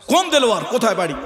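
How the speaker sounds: mock interrogation, high attack then settling; imitated angry teacher. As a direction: fire questions like a cross teacher. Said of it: "হুজুর খুব রাগ হয়ে বলে".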